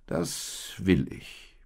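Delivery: whispered slow promise; earnest promise. Acted. The donkey earnestly promises the little animals, whispered and slow. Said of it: "beteuerte dieser".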